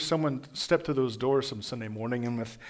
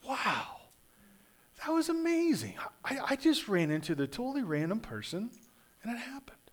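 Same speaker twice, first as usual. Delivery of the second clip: 1 awed hush; 6 semitones higher, 6 dB quieter than usual. Pretend. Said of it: "step back and say".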